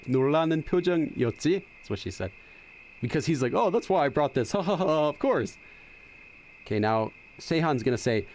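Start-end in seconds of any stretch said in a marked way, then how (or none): 3.5-5.6 hammed-up "ha, ha, ha" in a retold reply; mock boastful laugh. Retelling a character's reply about what he brought, mock boastful laugh. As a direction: imitate him laughing as he takes the credit.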